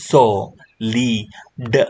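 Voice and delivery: "સો, લી, ડ" slow, split into pieces; "સો", "લી", "ડ" one by one with gaps; sounded out. Shown as a demonstration. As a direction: stretch and separate "સો, લી, ડ". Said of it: "S જોડાઈ જશે".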